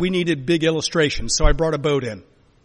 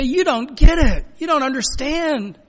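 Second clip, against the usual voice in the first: high, loud, drawn-out protest; heated mock confrontation; exasperated rebuke; 11 semitones higher, 5 dB louder than usual. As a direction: tell them off with voice pitched up. Acted confrontation of glib comforters.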